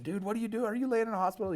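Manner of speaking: singer's voice pushed way up high and incredulous; shocked singer voice. Retold or imitated. The singer on the phone hearing about the hospital, in a high shocked voice. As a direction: squeak out the question in disbelief. Singer reacts to his call.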